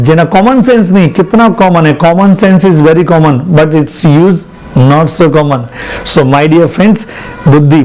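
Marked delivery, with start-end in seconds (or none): 2.0-5.6 slow teaching delivery. Shown as a demonstration. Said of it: "teacher spells out a proverb".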